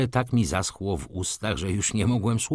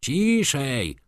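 higher, mildly stern hush; judge's rebuke; 6 semitones higher than usual. A narrator's reading. Judge scolds Wirski from the bench, mild rebuke. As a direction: rebuke with a raised pitch. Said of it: "zgromił go sędzia".

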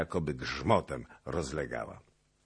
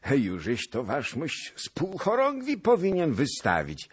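put-on laughing old man; 10 semitones higher than usual. A narrator's reading. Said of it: "rzekł śmiejąc się".

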